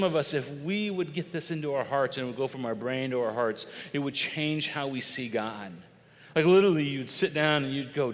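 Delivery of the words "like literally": sudden loud burst; loud, urgent emphasis; emphatic outburst. Real, not acted. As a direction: punch it out to wake them.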